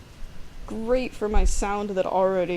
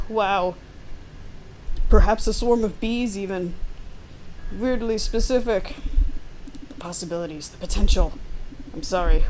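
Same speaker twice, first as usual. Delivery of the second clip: lightly voiced Devon. Devon pushing the player to hunt Claire, wheedling. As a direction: coax them like a shady coworker.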